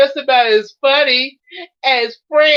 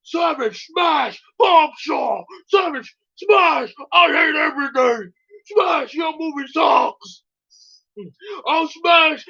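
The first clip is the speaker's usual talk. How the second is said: smashing critic shouting; 3 semitones higher, slower than usual. Acted. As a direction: yell each smash like a brute hero. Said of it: "He just goes smashing every critic".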